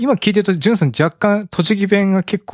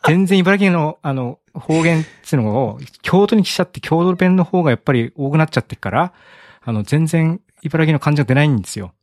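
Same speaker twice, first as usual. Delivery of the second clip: Ibaraki accent with lilting sentence melody; playful home-region Ibaraki intonation; Ibaraki dialect; 3 semitones higher than usual. Shown as a demonstration. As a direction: talk like an Ibaraki local, hamming it up a little. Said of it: "茨城弁出すのは初めてかもしれない".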